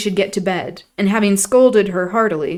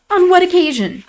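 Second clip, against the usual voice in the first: incredulous question; 12 semitones higher, 7 dB louder than usual. A narrator's reading. Catherine questioning Isabella.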